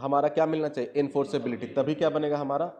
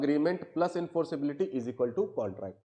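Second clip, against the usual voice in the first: slow equation; 5 dB quieter, much slower than usual. Shown as a demonstration. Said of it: "मैं ऐसे दिखा रहा हूं".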